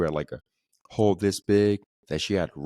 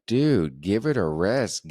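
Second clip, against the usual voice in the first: exasperated brush-off; 3 semitones higher, slower than usual. Retold or imitated. Telling off a pushy salesman.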